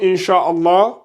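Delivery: "Inch'Allah" with the n hidden in a nasal hum; slow "Inch'Allah", n softened into the nose; dissimulation with nasalization. Shown as a demonstration. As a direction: hide the n of "Inch'Allah", slightly drawn out. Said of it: "C'est une dissimulation avec nasillement".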